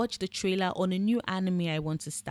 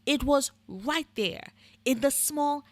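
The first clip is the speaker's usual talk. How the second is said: exasperated; 4 semitones higher, slower than usual. Real, not acted. Exasperated rant at roommate.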